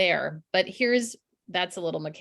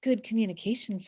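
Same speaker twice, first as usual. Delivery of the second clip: lightly put-on stage presenter; presenter mode. Speaker mimicking someone who changes on stage, mock presenter mode. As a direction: slip into a slightly staged presenter voice. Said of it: "this presenter mode".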